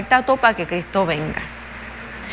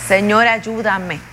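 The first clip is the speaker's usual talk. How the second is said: a slow, humble cry for help; slow pleading prayer; 3 semitones lower, slower than usual. Retold or imitated. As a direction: pray it slowly, almost to yourself. Repeated prayer, slowed.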